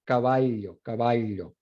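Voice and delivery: caballo with a palatal ly sound; caballo, Andean ll as ly; Andean pronunciation. Shown as a demonstration. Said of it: "en la región andina de Perú y Ecuador".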